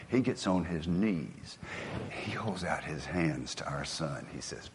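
hushed storytelling. Acted. Hushed climax of moving story.

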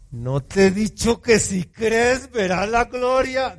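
gentle rebuke. Acted. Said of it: "se lo dijo más bonito".

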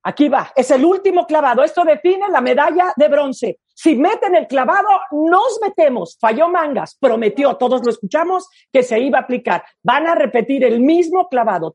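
excited sports commentator; live play-by-play. Pretend. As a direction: call the final dive, then despair. Mock live dive commentary.

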